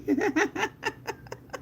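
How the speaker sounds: high-pitched trailing laugh; real amused cackling; helpless laughter. Real, not acted. Laughs about dramatic nephew.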